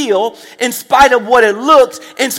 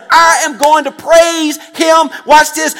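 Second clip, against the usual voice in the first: slow, higher, louder preaching cry; shouted vow; 5 semitones higher, 3 dB louder than usual. Real, not acted. Pastor vowing praise to the church, shouting. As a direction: shout the promise out.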